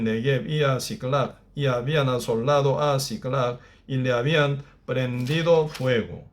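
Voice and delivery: measured, slowed Bible reading; scripture reading. Acted. Reads scripture passage aloud.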